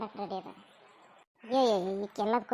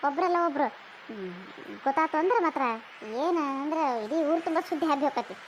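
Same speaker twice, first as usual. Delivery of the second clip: heated warning; 2 semitones higher, 3 dB louder than usual. Acted. Warning about village gossip.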